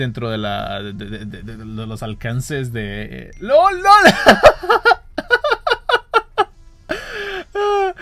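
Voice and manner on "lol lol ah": high, loud cackling laugh. Real, not acted. Vlogger laughing as his friend fails the catch, laughing. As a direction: burst out laughing at the fail.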